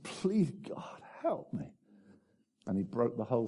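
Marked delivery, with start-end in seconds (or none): 0.0-1.7 high, soft, small prayer; pleading. Retold or imitated. Preacher voicing the man's turning point, softly pleading. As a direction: plead softly, pitch lifted.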